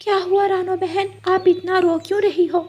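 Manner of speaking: high, chirpy parrot voice; concerned parrot asks her crying friend what happened. Acted. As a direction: raise the pitch for a little parrot friend. Parrot character asks crying bird.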